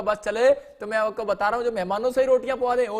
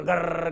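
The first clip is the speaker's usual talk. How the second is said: helicopter noise; 3 semitones lower than usual. Retold or imitated. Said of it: "वो घूम रहा है आशीष लेकर".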